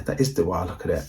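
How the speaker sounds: quiet, even and unraised; firm but never lifting the voice; calm level voice. Retold or imitated. Dad answering the teacher, quiet and level. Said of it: "he kept his voice at one level".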